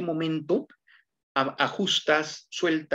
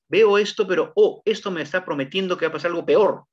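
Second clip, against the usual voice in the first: excited viewer; faster than usual. Retold or imitated. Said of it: "tener expectativa siempre".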